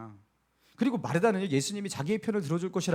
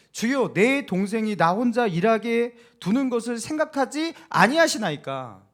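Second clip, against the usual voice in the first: loud, slow, confident appeal; bold complaint; 3 semitones higher, 6 dB louder than usual. Acted. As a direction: demand it of Jesus boldly. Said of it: "당당하게 예수님께 나아가서". (당당하고 크게 따지듯)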